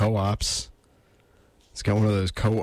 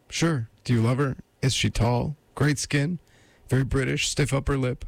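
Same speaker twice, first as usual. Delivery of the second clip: higher-pitched lady voice, questioning; probing woman; 5 semitones higher than usual. Acted. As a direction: quiz him in a raised female voice.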